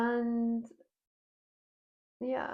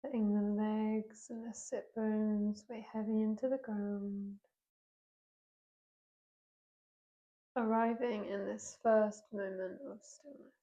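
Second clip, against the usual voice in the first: unhurried yoga teacher guidance with long pauses; guided yoga meditation. Real, not acted. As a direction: guide them gently into breath and movement, leaving space between phrases. Leads a seated yoga meditation.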